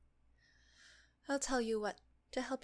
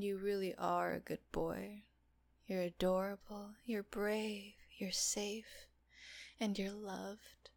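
tender reassurance. Acted. Reassurance, fading to whisper.

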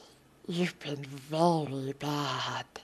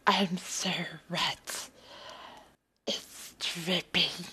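whisper; 5 dB quieter than usual. Acted. Whispered dirty talk.

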